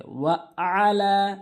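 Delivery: আলা with a throaty ain from the throat. Shown as a demonstration. Teacher correcting ain to students. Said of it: "আইনের জায়গায় হামজা এনে".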